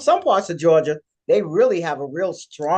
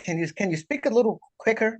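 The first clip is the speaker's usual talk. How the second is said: mock plea; 7 semitones higher, 3 dB quieter than usual. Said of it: "I'll be like".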